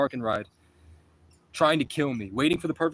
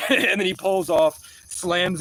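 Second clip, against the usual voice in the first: loud, slow laughter into the words; laughing; 5 semitones higher, 4 dB louder, slower than usual. Real, not acted. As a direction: laugh as the car takes off. Laughing at the crash.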